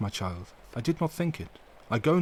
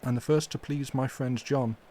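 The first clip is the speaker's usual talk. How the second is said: full of pity; 3 semitones higher than usual. Acted. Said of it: "with an accent full of pity".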